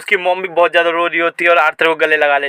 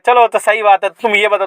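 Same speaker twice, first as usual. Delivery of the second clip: a raised, higher call out; 4 semitones higher than usual. Acted. Father calling out to his returned son, raised voice. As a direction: half-shout the question cheerfully. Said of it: "चिल्ला के बोलता है".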